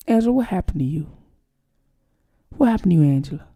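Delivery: soft, low, mock-concerned reproach; gentle chiding. Scolding Angela for how she talks, gently chiding.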